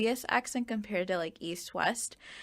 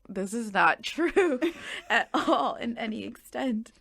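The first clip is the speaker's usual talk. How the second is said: mock disbelief; 3 semitones higher, 3 dB louder, slower than usual. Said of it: "And I'm just like".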